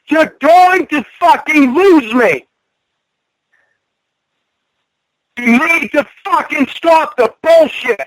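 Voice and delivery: tearing into her over the phone; real anger. Real, not acted.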